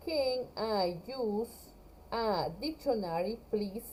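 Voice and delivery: slow, questioning rise on the end; slow model question. Shown as a demonstration. Teacher models the whole question slowly for her class. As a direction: read the full question slowly. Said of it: "¿Puedo usar un diccionario?".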